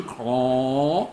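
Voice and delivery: a crow's harsh call; crow caw. Acted. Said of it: "And I go caw".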